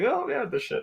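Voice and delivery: a high, cocky mock of Anakin. A cohost mimics Anakin showing through Vader, high and cocky. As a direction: toss it off like young Anakin. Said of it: "I heard a little Anakin show in there".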